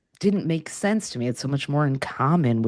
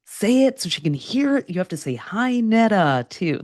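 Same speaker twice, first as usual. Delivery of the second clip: raised, pitched-up retold coach shout; coach yelling; 6 semitones higher than usual. Coach on stage making her call out, raised pitched-up mock yell. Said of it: "making me yell".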